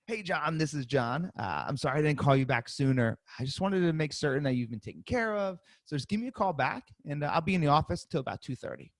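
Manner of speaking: upbeat voicemail, pitch lifted on the greeting and the callback ask; bright, energetic voicemail to a lead. Shown as a demonstration. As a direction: sell it with energy. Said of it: "Very energetic".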